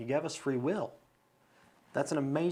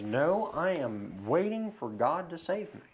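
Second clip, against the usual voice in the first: slow, higher, drawn-out refusal; mock-firm turning down of help, word by word; stubborn swimmer; 4 semitones higher, slower than usual. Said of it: "And he goes".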